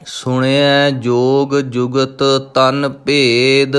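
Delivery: slow, drawn-out devotional chanting of each word; slow Gurbani recitation. Acted. Teacher reciting Japji Sahib for students, slow devotional chant. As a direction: intone every syllable slowly and reverently.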